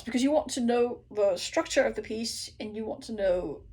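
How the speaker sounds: normal talking voice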